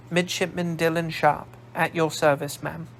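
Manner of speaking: a polite Glaswegian midshipman reporting; Glasgow accent. Acted. Midshipman introduces himself to the old woman in a Glasgow accent. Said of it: "From your accent, you were raised in Glasgow".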